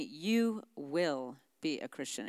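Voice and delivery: firm mother. Retold or imitated. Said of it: "she's pretty firm".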